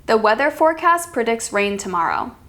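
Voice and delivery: statement dropping on "tomorrow"; even report with a falling end on "tomorrow"; falling intonation. Shown as a demonstration. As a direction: let "tomorrow" fall to a close. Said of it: "That's falling".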